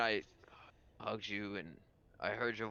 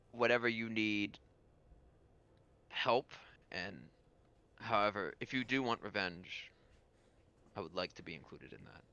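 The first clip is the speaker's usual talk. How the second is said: solemn lord character; 2 semitones lower, much faster than usual. Acted. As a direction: offer help with measured restraint. Game master voices the lord.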